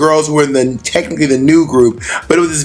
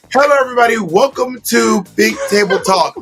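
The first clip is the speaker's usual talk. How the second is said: higher, stretched-out talk-show welcome; mock show host; 6 semitones higher than usual. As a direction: greet the audience like a hammy host. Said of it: "it felt like she was like".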